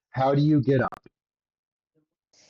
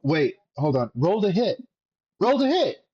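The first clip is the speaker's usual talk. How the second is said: ogre voice; 4 semitones higher than usual. Retold or imitated. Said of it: "the ogre goes".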